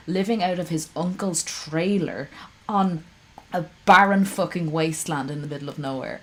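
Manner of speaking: heated, punchy scolding; furious lecture at a streamer; angry rant. Real, not acted. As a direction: tear into him, really mad. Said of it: "I am so angry at this man".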